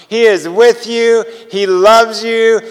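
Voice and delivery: slow, gentle, heartfelt; tender reassurance. Retold or imitated. Telling the stewardess Jesus loves her, slow and tender.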